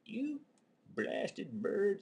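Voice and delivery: high shouted curse at birds; angry shout. Retold or imitated. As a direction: shake your fist and yell.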